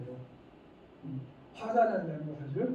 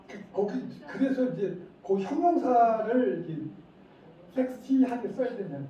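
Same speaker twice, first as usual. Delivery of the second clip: laughing; 5 semitones higher, 4 dB louder than usual. Real, not acted. Laughs while explaining.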